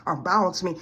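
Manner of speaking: fighting back real sobs; choked, tearful words; real crying. Real, not acted. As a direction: voice breaking into tears. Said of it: "I'm at this point where I'm in tears".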